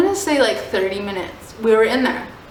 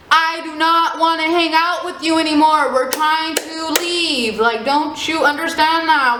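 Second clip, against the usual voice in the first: higher, fed-up retold telling off; exasperated yelling; 6 semitones higher than usual. Girl telling persistent guys to back off, exasperated. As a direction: spell it out to the creeps, exasperated.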